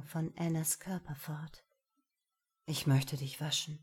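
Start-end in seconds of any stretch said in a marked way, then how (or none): 2.7-3.8 low, gentle man's voice. Acted. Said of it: "sagte er sanft".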